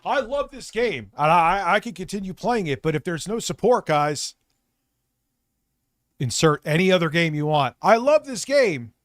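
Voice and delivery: loud, high mock of Phil's whine; hammed-up parody of Phil; mocking impression. Streamer mimicking Phil's repeated excuse, loud and high. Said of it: "He always".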